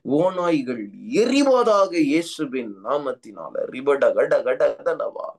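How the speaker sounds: intense tongues-filled prayer, rhythmic and urgent; fervent prayer. Acted. Pastor leading congregation in prayer, fervent. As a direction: pray over the church with rising fervour.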